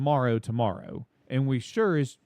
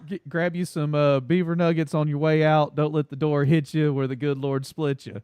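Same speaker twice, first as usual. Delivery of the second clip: Southern send-off; 3 dB louder than usual. Pretend. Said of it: "here's how it would sound for the South".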